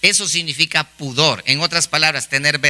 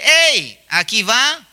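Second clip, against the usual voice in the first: high call, only mildly raised in volume; mock calling out; 4 semitones higher, much slower than usual. Preacher acts the dress announcing its wearer, mock calling out. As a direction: announce it like a talking dress hailing people. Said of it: "ese vestido está gritando y dice".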